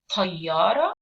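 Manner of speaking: "tayyara" with a heavy, jaw-dropped T; slow teaching "tayyara" on a dark T; hard T. Shown as a demonstration. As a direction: hit a hard emphatic T in "tayyara". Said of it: "harder version of the T".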